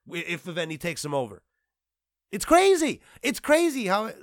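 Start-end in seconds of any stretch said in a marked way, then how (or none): 2.3-4.2 higher, louder cry of disbelief; exasperated outburst. Real, not acted. Vlogger outraged by Ubisoft takeover news, loud disbelief. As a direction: throw your hands up at the news.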